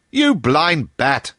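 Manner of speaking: crying out. A narrator's reading. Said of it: "cried Bull".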